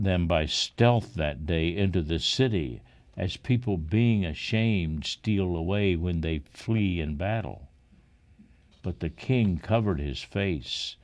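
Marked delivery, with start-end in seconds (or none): none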